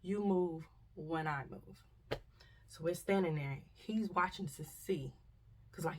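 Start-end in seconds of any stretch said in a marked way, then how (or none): 0.0-1.9 slow command. Retold or imitated. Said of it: "That's what he said".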